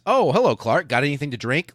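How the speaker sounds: high, breezy mock-English hello; casual posh greeting. Officer greeting his old buddy mid-war, breezy and high. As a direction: toss off the hello like nothing happened.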